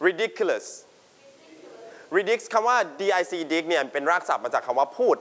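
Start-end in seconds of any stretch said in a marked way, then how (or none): 0.1-0.7 ridiculous with DIC stressed; ri-DIC-ulous, stressed in the middle; stress on second syllable. Shown as a demonstration. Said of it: "You stress on dick".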